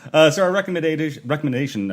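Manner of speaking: groggy hungover speech; stumbling over words, hungover. Real, not acted. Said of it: "I can't talk because I'm hungover".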